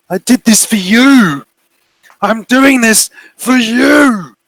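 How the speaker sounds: very high, slow, wounded pleading; pleading figure. Acted. The figure insisting to Maddie it built this for her, high and slow.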